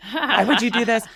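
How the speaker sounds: hammed-up exasperated yell; mock angry outburst. Woman retelling her fury at the geese, mock angry. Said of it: "I got so mad".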